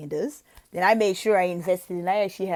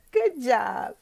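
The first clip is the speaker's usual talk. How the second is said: tag; 4 semitones higher than usual. Shown as a demonstration. Praising imagined child.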